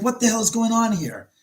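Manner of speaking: mock puzzled dog voice; dog's imagined thought. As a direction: voice the dog wondering what's going on. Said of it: "looked at the door like".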